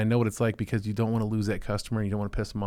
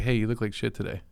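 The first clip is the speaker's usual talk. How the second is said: deadpan blunt. Shown as a demonstration. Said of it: "That sounds offensive".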